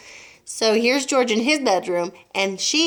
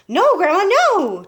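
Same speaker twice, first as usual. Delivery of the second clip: higher, louder pleading call; called back; 10 semitones higher, 8 dB louder, slower than usual. A narrator's reading. George calling back up to Grandma. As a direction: call up to her, begging her to stop. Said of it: "George called back".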